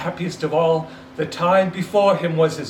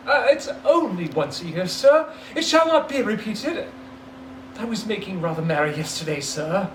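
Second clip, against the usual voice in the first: flustered pleading; 3 semitones higher than usual. Acted.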